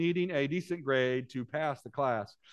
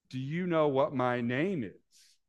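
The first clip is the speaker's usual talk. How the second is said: mocking; slower than usual. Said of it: "rephrased the question mockingly".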